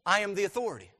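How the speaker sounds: "I" hit high and loud, then falling; emphatic authority. Acted. Preacher voicing Jesus as the authority, emphatic. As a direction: declare it with weight on "I". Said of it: "Jesus said".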